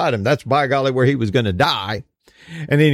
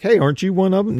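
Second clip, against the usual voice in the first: accusing bystander; 8 semitones higher, faster than usual. Retold or imitated. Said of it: "'Cause the first time they're like".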